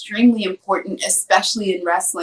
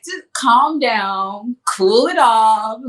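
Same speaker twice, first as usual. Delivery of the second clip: calm it down, slow and easy; slow calming coach; much slower than usual. Retold or imitated. Coach settling a crying wrestler, slow and calm. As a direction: soothe her, drawn out and gentle.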